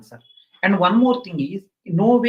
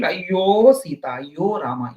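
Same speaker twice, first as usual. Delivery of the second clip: ayyo wail; 3 dB louder, slower than usual. Retold or imitated. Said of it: "You cry like anything".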